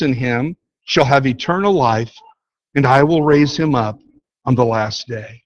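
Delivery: preacher reading Jesus' words to the congregation, measured and solemn; scripture reading. Acted. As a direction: read the verses solemnly, letting each line land. Reads scripture passage aloud.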